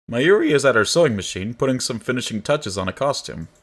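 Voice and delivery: lively, measured read-aloud of game text; story narration. A narrator's reading.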